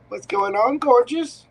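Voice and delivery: hammed-up pickup line greeting; cheesy pickup line voice. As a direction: lay on the charm like a sleazy flirt. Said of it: "my cheesiest pickup line voice".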